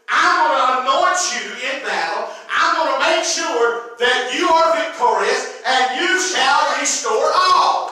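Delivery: slow, building proclamation; forceful preaching. Retold or imitated. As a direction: preach God's promise, rising to full force.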